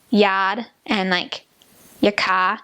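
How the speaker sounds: slow Boston accent, no R's. Shown as a demonstration. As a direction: drop the R in yard and car. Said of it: "And then they have".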